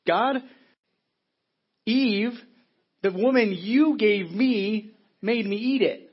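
slow, loud, high whining excuse; whiny Adam blaming. Acted. Preacher voicing Adam blaming God, slow whiny excuse. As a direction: drag it out, pointing the finger at Eve.

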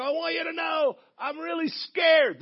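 high, drawn-out mock shout; yelling over wind. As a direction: imitate a scared jumper hollering over roaring wind. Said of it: "you gotta yell 'cause the wind's coming in".

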